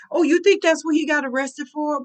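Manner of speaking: mock the idea loudly; mock shouted question.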